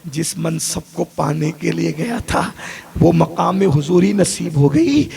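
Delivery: slow, simple and unhurried; simply, plainly. Acted. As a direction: say it slowly and simply, no drama. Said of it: "بڑی سادگی سے ماں نے کہا".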